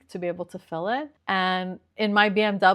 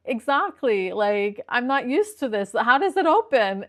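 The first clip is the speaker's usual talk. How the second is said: exasperated, pitch jumping up on the question; mildly frantic, voice lifting at the end; retold exasperation; 4 semitones higher, 4 dB louder than usual. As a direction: replay your own flustered complaint. Frustrated customer retelling her complaint.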